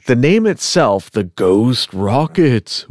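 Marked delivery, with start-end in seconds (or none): 1.1-2.9 slow, drawn-out mock spooky voice. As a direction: draw out the name like a campfire ghost story, half joking.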